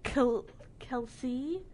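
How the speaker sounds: Khal- then Kelsey, slow and hesitant; unsure pronunciation. Real, not acted. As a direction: sound out Kelsey slowly. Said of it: "I don't know how to pronounce these names".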